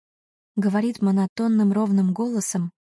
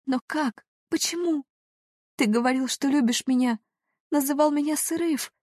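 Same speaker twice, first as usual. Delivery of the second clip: pleading; 7 semitones higher than usual. A narrator's reading. Heroine pleads, pitch high, soft.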